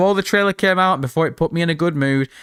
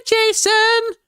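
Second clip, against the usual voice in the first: high, drawn-out mock female call; stretched, high-pitched hail like a flirty woman; imitating a woman calling out; 3 dB louder, much slower than usual. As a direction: sing out the name in a put-on high voice. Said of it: "the audio of that woman saying".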